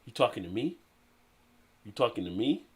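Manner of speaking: mild De Niro taunt, repeated; casual take on the famous mirror line; Robert De Niro voice. Retold or imitated. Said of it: "let me do my Robert De Niro voice".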